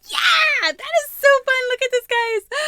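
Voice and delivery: high, loud delighted squeal; squealing excitement. Real, not acted. Squealing over gift.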